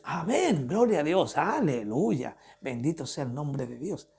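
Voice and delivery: mock preacher's praise, drawn-out acclamations with swooping pitch; imitating praising preachers. Pastor mimicking the many men who preach about God, singsong mock praise. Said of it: "Son muchos los hombres que predican de Dios".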